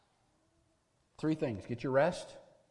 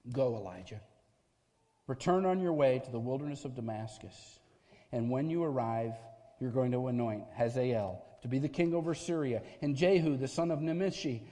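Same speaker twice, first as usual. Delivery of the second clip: God's voice. Acted. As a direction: speak with calm divine authority. Voicing God's answer.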